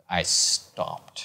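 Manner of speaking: breathed out, barely voiced; hushed awe. Real, not acted. Fan frozen before giant posters, hushed whisper. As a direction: let the awe take your voice away.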